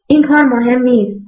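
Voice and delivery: put-on patiently, as if to a well-meaning child; patient, motherly. A narrator's reading. Mariam patiently answers Laila like a mother to a child, patient. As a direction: gently set a mistaken child straight. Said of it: "مریم صبورانه گفت".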